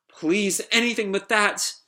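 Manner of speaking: high, tearful plea; Pino. Acted. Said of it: "she's, like, crying".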